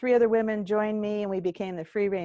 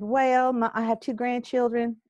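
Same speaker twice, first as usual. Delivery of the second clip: put-on Southern accent; 2 semitones higher than usual. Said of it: "the horrible Southern accent".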